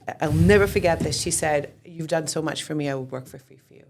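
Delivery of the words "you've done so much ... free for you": teary nanny quote. Retold or imitated. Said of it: "with tears in her eyes".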